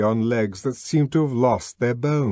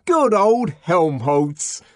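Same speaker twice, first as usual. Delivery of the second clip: excited cheer; 6 semitones higher, 5 dB louder, slower than usual. A narrator's reading. Joyful cry in narration.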